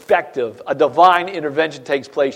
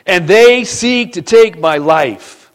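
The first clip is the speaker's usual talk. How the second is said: slow lament; 4 semitones higher, 8 dB louder, much slower than usual. Acted. Elijah's complaint acted out.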